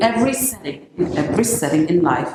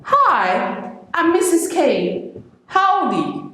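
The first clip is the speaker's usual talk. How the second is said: breezy, higher casual hello; casual greeting; 10 semitones higher, much slower than usual. Shown as a demonstration. Walking in on the boss, breezy casual hello. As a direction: toss it off lightly, too friendly. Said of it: "informal, you just walk in and say".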